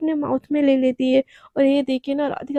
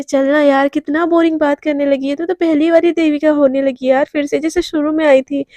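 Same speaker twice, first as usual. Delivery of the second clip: coaxing; 5 dB louder than usual. Acted. Friend coaxing Devika to party.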